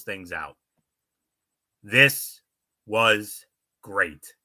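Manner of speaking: wrestling news recap read; written recap read. A narrator's reading. Host reads the segment recap to listeners, announcer-style. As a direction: read out a prepared match report.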